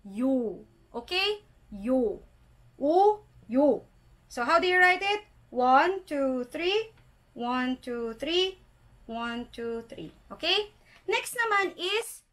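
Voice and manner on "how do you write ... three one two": ordinary talk, nothing marked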